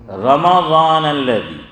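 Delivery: "رمضان" as ra-ma-daan, drawn out very slowly; correct Arabic pronunciation. Shown as a demonstration. Preacher quoting the verse as proof, slow Arabic recitation. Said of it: "تو میم پر کیا آیا؟".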